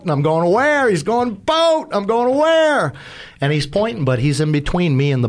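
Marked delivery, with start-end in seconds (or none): 0.5-0.9 high, bewildered question; searching, can't see it; retold puzzled cry; confused high where. Answering the captain's warning. 1.3-1.9 high, urgent repeated call; captain's sharp high warning. Retold or imitated. Captain calling out a boat. 2.4-2.9 high, bewildered question; searching, can't see it; retold puzzled cry; confused high where. Answering the captain's warning.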